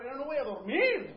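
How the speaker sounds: loud, high, laughing mock complaint; comic exasperated spouse; laughing punchline.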